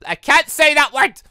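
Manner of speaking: loud, high, exasperated outburst; frustrated shout. Real, not acted. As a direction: yell it out, fed up with tripping on the word. Stumbling over manipulate, gives up.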